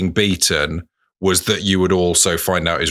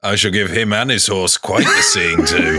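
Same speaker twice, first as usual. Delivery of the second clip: saucy. Shown as a demonstration. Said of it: "as saucy when you say it?".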